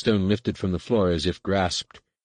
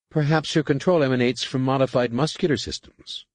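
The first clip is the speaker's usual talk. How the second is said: higher, tentative adept voice; higher underling voice, hesitant; suggesting adept; 7 semitones higher, 3 dB louder than usual. A narrator's reading. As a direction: offer the idea carefully. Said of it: "Nenyim suggested".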